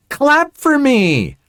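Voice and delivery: very high, drawn-out demand; bratty mock yell. Entitled daughter demands applause from a silent audience, high drawn-out mock yell. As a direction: wail it slowly like a spoiled daughter. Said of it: "entitled daughter yells into the microphone".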